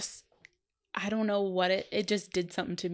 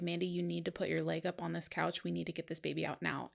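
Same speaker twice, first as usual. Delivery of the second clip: serious; 2 semitones lower, 6 dB quieter than usual. Retold or imitated. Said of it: "her whole voice changed".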